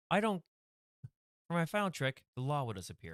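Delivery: high, theatrical magician announcing his trick. Acted. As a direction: raise the pitch and play the showman. Magician character line in sketch.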